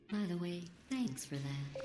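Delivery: drip sarcasm on thanks; sarcastic. Acted. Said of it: "Sarcasm self-test complete".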